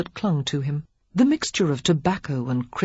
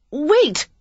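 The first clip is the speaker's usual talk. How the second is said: a loud, high call; crying out; 11 semitones higher, 6 dB louder than usual. A narrator's reading. Lily calls after the departing earl, loud and high. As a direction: call after him before he escapes. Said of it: "she cried".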